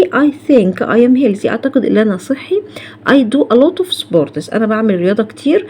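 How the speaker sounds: slow, deliberate English examples; careful dictation pace; slow model sentences. Shown as a demonstration. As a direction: read each sentence slowly for students. Teacher models example sentences slowly.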